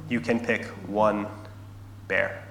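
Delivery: measured, mildly stern mother; stern mom. Acted. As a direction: set the limit with pauses, understated sternness. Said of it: "her mom says very sternly".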